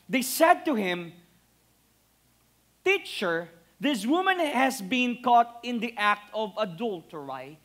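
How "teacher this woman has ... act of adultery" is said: put-on slipping into a light British accent; an accidental British accent on the verse. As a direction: read it with a touch of British English. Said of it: "biglang naging British accent".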